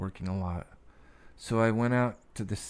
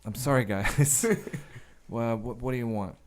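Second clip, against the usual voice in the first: catching himself apologetically; 4 dB louder than usual. Retold or imitated. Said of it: "he, like, catches himself".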